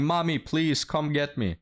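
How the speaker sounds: high whiny kid voice, mocking the men; hammed-up little boy calling for mommy; mocking men who run off crying for mommy, in a high childish whine.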